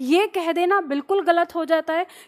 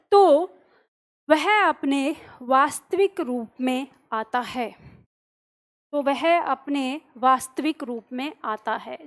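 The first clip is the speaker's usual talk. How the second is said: slow dictation. Shown as a demonstration. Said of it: "comma लगाओ".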